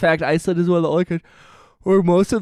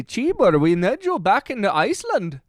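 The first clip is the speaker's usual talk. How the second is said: attempted Icelandic accent; 4 semitones higher than usual. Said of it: "I cannot do an Icelandic accent".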